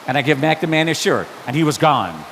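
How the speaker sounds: ordinary talk, nothing marked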